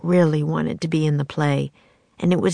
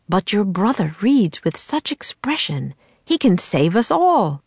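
lightly voiced theatrical man, rising with hope; a showman coaxing a boy; playwright's voice; 4 semitones higher than usual. The playwright pleading with Annie, lightly theatrical.

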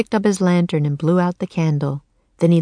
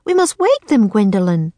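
urgent; 4 semitones higher, 4 dB louder than usual. Acted. Boy urges his sister.

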